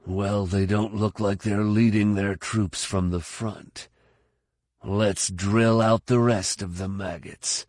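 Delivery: lightly voiced soldier, measured contempt; deliberate, dismissive battle talk; a hint of a hardened trooper; scornful fighter. Figure voiced in the story.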